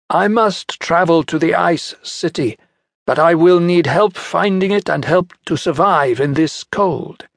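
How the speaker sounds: cool, measured villain; Centaur bargaining. Acted. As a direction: lay out the deal, calm and cold.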